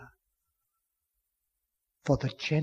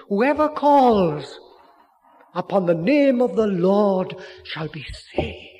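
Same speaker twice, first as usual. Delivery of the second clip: very loud, much higher, slow call; ringing proclamation; 6 semitones higher, 8 dB louder, slower than usual. Acted. Preacher proclaiming whoever calls shall be saved, loud slow. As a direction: declaim every word out slowly.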